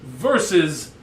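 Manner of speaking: slow, drawn-out delivery; over-enunciating every word slowly; talking slow. Real, not acted. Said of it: "Why are you talking so slow?".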